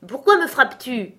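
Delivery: a riled giant bellowing at his companion; angry giant shout. Acted. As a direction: roar the accusation like a riled giant. Second giant shouts accusation.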